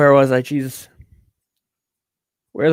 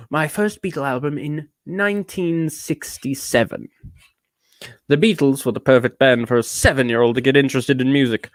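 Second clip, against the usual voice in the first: put-on British accent. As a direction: read like an affected Brit. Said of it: "I'm doing so much British".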